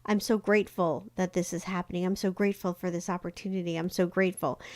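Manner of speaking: grateful. Shown as a demonstration. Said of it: "you can say".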